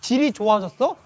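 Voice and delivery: loud, high taunting voice of the world; 유혹하는 세상의 목소리. Acted. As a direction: challenge and scoff, building to loud, high-pitched denial. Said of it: "세상은 우리에게 이제 이렇게 막 속삭이기 시작해요". (크고 높게 비아냥대며 따지는 세상의 목소리)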